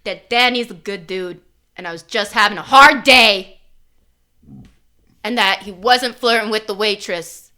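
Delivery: pushy, overly forceful reassurance; too aggressive. Pretend. Player character overdoing her defense of Danny, too aggressive. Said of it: "a little too aggressively".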